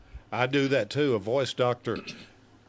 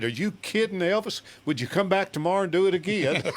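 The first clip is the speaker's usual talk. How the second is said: excited; 5 semitones higher, faster than usual. Retold or imitated. The speaker retells an exchange with a singer.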